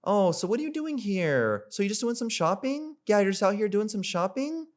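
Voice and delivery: high, light friendly greeting; high upbeat opener. Shown as a demonstration. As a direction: pitch it way up like a cheery greeting.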